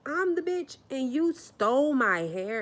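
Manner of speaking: shrill high What? then outraged; retold disbelief. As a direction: squeal in stunned disbelief. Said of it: "And I'm like".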